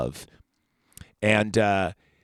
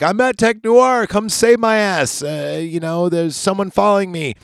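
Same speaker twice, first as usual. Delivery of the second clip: much higher, mock-frantic girl's voice; mock Sarah in distress; 9 semitones higher, 4 dB louder than usual. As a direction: squeak it out like a panicked damsel. Sarah calls for rescue, retold.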